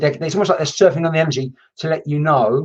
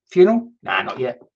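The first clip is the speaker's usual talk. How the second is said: spirit's voice; 3 semitones lower than usual. Retold or imitated. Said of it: "I'm gonna give him his voice".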